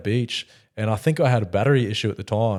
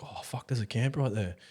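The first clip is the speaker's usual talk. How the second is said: much softer, slow hushed realisation; hushed alarm; 10 dB quieter than usual. Retold or imitated. Sneaking past a camp at midnight, soft slow hush. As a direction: drop to a hush so the campers won't hear. Hears dog, nearby campers.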